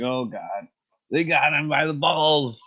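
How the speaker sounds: a quick put-on voice of the friend; mock impression. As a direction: toss off a dismayed friend's line.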